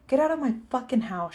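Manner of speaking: loud, furious order; angry yell. A narrator's reading. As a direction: yell it right in his face. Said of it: "she yelled at me".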